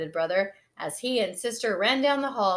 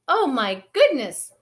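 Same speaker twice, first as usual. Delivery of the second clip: high, loud alarmed cry; Mama sees the bubble-filled bathroom, shocked; 8 semitones higher, 6 dB louder than usual. Acted. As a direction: gasp it out in dismay. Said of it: "cried Mama".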